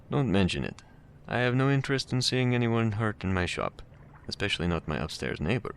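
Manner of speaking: put-on pleasant, cultured voice with slight Russian accent; amateur Russian accent, politely cautioning a visitor; hint of Russian accent. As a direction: lightly voice a courteous Russian. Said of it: "There's a hint of a Russian accent".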